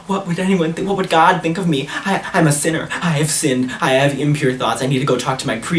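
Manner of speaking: mildly hammed-up sinner's confession; imitating guilty panic. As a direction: fret aloud like a guilt-struck believer. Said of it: "he was going crazy saying".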